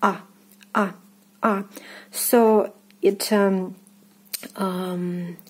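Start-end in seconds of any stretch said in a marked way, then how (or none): 0.0-1.6 "ah" as a short open vowel; demonstrated "ah" sound; unstressed O as ah. Shown as a demonstration. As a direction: say "ah" for unstressed Russian O, in separate short takes. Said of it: "you pronounce is li-, it like ah".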